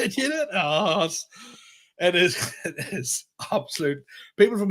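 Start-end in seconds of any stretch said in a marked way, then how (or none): 0.0-0.5 high-pitched calling voice; pitched-up accusing question; mock heckling question. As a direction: pester him in a put-on high voice. Continues the mock questions to Donaldson.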